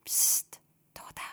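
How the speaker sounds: unvoiced shushing; whispered hush. A narrator's reading. Papa hushing Toda during the sermon, whispering. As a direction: hush her under your breath. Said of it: "flüstert der Papa".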